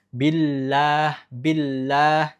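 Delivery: billah with the la hummed through the nose; wrong nasal billah. Shown as a demonstration. Teacher demonstrating the wrong nasal billah. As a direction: say billah letting gunnah leak into la. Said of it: "la tidak boleh bergunnah".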